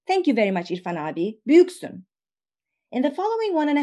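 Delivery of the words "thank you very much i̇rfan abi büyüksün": exclaiming thanks. Retold or imitated. Young woman thanking the baker, exclaiming. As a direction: toss out a cheery thanks, büyüksün ringing up. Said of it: "the young woman exclaims".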